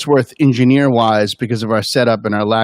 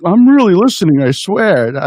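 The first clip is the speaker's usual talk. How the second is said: higher, over-eager swearing; mock earnest promise; 8 semitones higher, 4 dB louder than usual. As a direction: insist you're listening, pitched up. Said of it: "I'm like".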